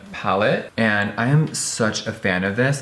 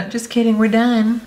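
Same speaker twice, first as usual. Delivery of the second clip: laughing joke; 12 semitones higher, 4 dB louder than usual. Real, not acted. Joking after fake tutorial step.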